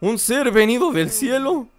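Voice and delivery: a faint, fading voice that believes it is dying; halting, as if drifting out of consciousness; dying dazed girl. Acted. Weak girl to a fairy, fading and dazed.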